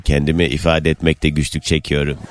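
hoarse, strained voice barely coming out; raspy whisper. Real, not acted. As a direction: speak through a worn-out hoarse throat. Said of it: "zaten sesim zor çıkıyor". (kısık, zor çıkan boğuk ses)

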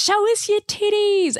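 high, slow, drawn-out rock star shout. Retold or imitated. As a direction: stretch it out like a frontman to the crowd. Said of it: "he was like to the audience".

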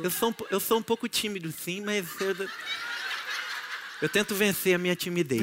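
a playful lisp on eu sou um pouco tímido. Pretend. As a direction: lisp the s in sou, sim and timidez. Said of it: "com a língua presa".

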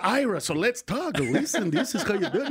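lightly put-on Jewish neighbour accent; Jewish guy accent. Imagined neighbour giving lessons next door, Jewish accent. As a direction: explain it in a mock Jewish accent. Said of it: "I just did a Jewish guy".

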